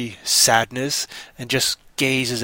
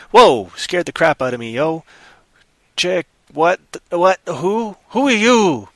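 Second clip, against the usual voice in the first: startled; 5 semitones higher, 5 dB louder, slower than usual. Acted. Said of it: "it's like".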